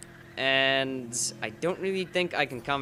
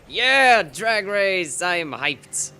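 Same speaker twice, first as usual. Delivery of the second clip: hyped-up hick; 5 semitones higher, 7 dB louder, much slower than usual. Acted. Self-styled hick at a drag race, loud hyped whoop. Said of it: "I am such a hick".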